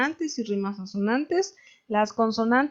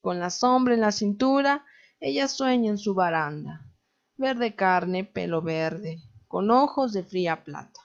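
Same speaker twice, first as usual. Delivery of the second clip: measured recitation, stopping after "cintura", "baranda", "verde" and "plata"; poem read line by line, a clear rest after "cintura"; marked verse pauses. Shown as a demonstration. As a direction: give each verse its own breath, pausing after "baranda". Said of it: "tenemos que marcar perfectamente las pausas".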